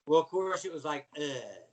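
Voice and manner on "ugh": grunt. Retold or imitated. Imitates own unimpressed reaction.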